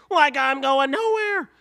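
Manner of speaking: Shaggy talks back to the host. Acted.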